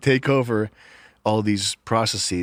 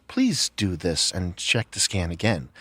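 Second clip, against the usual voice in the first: slow, lower robotic announcement; mock machine voice; 6 semitones lower than usual. Mocking the self-checkout machine's nagging message, slow and lower. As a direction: recite like a self-checkout prompt, slowly. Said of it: "the message that it plays".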